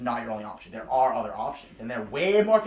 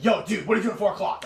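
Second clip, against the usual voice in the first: retelling his buddy's hyped-up call, a touch higher and louder; mock stoked buddy; 5 semitones higher, 3 dB louder than usual. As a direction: play the excited friend lightly. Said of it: "Like, really stoked out of his mind".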